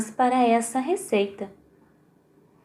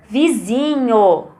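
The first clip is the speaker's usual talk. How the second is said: Vizinho. slowly, zi louder and held; stress on ZI; 3 dB louder, slower than usual. Shown as a demonstration. Teacher to pupils, Vizinho. slowly with zi stressed. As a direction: stretch the zi in Vizinho. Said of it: "o som mais forte?".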